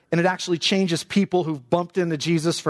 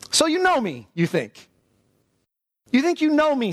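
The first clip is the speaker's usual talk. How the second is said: ironic; 9 semitones higher than usual. Shown as a demonstration. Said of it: "that's the sense of this".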